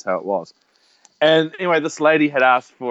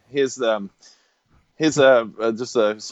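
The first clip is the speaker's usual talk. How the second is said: low, halting ceremonial announcement; mock Oscars presenter; 6 semitones lower than usual. Friend presenting a funeral slideshow, mock Oscars host. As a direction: introduce it as if at an awards show, pitched down. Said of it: "I'll make it like the Oscars".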